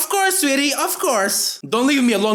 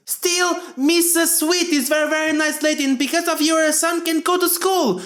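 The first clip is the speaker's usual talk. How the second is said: higher mom voice; 5 semitones higher than usual. Acted. Voicing mom.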